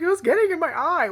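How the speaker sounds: high, loud defensive whine; mock indignant whine; whiny sister. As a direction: imitate sister defending her freak-out. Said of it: "She's like".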